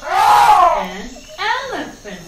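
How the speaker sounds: loud, eager "An elephant"; loud repeat. Shown as a demonstration. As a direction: call "An elephant" out loud for kids to echo. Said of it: "How do we say it?".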